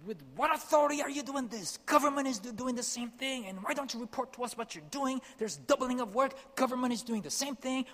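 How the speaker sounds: high, loud, indignant yelling at the foreigner; angry shouting. Retold or imitated. Village sheikh yelling at the aid worker, high furious shout. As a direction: shout him down with outrage.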